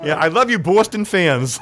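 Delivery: mock affection, laughing. Mock love for rival fans.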